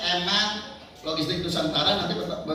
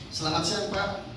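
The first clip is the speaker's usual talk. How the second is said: soft, courteous secretary greeting; polite greeting demo; 4 dB quieter than usual. Shown as a demonstration. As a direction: greet the boss softly and politely. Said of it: "S O P-nya kalau ketemu pimpinan".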